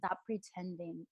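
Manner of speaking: calm her like a loving parent; quiet reassuring divine voice; gentle God. Retold or imitated.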